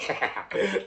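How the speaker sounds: high loud laugh; burst of laughter. Real, not acted. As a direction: laugh out at the absurdity. Laughing at the memory.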